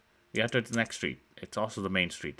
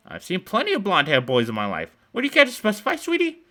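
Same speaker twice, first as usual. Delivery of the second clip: much higher, sing-song granny voice; old woman luring kids with cookies, high and sweet; sugary old woman; 11 semitones higher, 8 dB louder than usual. Acted. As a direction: coo like a too-sweet grandma. Old woman questions the boy.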